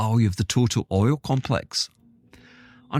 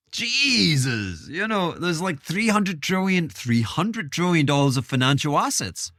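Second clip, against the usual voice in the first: put-on higher-pitched, rough try at a southern accent; attempted southern accent; 4 semitones higher than usual. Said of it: "I can't do the southern accent. I, I might try".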